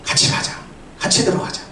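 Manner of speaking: soft, hushed fatherly plea; gentle coaxing. Acted. Father pleading with his elder son to come in, gently coaxing. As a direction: coax him quietly to come along. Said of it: "아들을 권면합니다".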